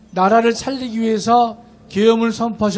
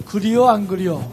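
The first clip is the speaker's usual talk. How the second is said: Jeolla dialect; 4 dB louder than usual. Retold or imitated. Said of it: "전라도 사투리로".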